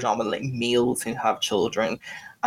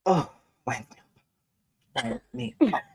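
wound up; 9 semitones higher than usual. Real, not acted. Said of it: "I'm wound up now".

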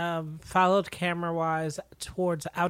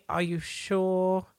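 slow doubtful; much slower than usual. Retold or imitated. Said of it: "after the".

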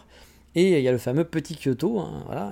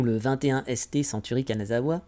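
English name read the French way, softly; French pronunciation of an English museum name; French version; 4 dB quieter than usual. Shown as a demonstration. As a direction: say it all with French sounds. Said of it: "en français".

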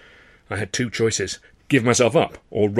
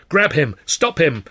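pursuers shouting; 5 semitones higher, 5 dB louder, slower than usual. A narrator's reading.

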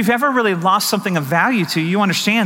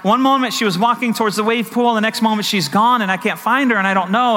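higher-pitched imitation of a panicking mother; retold panic; 4 semitones higher than usual. Husband retelling his wife losing their daughter, mock panicking. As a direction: imitate a worried, running explanation. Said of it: "she's panicking".

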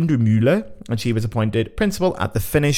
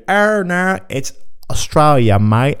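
loud, hammed-up Australian accent; bad Australian accent; 5 semitones higher, 4 dB louder, slower than usual. Host revealing surprise winner Australia, in a bad Australian accent. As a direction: put on a botched Aussie twang, loudly. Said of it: "I can't do the accent either".

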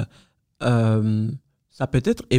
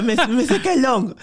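high, incredulous question through laughter; mock bewilderment, pitched way up; imitating laughing father; 12 semitones higher, 4 dB louder than usual. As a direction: act out dad cracking up in disbelief. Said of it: "il commence à rire, tu vois, il fait".

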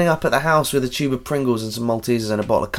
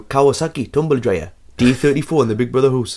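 Newcastle accent. Shown as a demonstration. Showing the phrases that get them into it, Newcastle accent. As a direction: put on a Geordie accent. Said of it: "in Newcastle".

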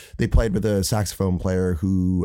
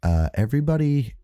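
calm voice; slower than usual. Retold or imitated. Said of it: "he really calmly stands up and goes".

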